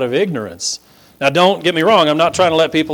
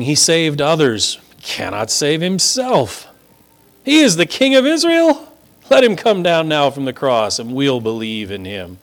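mocking priests. Preacher lightly voicing priests mocking Jesus. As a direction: sneer it like a smug elder. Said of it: "mocked him, saying".

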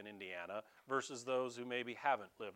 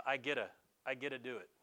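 imitating his kid; 2 semitones lower, faster than usual. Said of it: "I was picking on one of them".

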